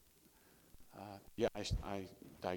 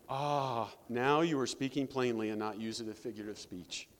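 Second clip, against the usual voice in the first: relief; 7 dB louder than usual. Retold or imitated. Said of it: "Total relief".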